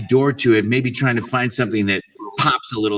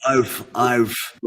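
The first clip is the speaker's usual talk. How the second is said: dog bark. Acted. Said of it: "how do you say".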